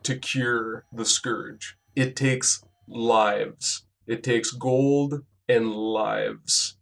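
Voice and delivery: slow, grave villain speech; menacing villain. Acted. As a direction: lay out the dark plan slowly. GM voices villain explaining cure.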